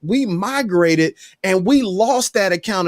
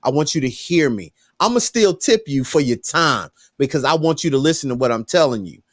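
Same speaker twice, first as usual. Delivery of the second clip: low, measured advice; calm firm talk; 4 semitones lower, faster than usual. Retold or imitated. Customer calmly tells the waiter to hear him, low and firm. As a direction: settle him down and make him listen. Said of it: "I said".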